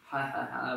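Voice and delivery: imitated teasing "ha, ha, ha"; mocking mimicry. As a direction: mimic schoolkids mocking an accent. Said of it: "and, and kinda mimic you".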